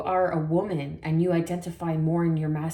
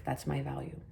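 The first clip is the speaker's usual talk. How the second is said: breathy whispered aside; whispering; 8 dB quieter than usual. Real, not acted. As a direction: whisper it to yourself. Soft aside after stating her price.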